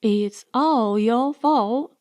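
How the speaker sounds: slow, pointed blame; tossing the blame back at her; a touch of sulky temper. Acted. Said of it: "she turned on me in a temper".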